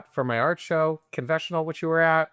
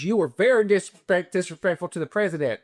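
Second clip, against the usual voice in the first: raised, higher mock scolding; retold screaming scolding; 4 semitones higher than usual. Girlfriend scolding him on the plane, mock yell. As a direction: imitate an outraged telling-off, half-strength yell. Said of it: "she's screaming at me".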